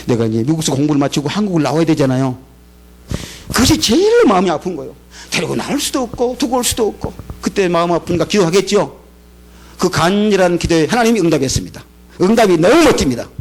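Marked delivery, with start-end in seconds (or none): none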